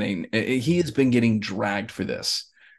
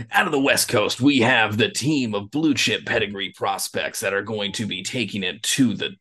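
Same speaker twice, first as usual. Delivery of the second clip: announcer promo. Acted. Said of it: "I guess I'm cutting a promo".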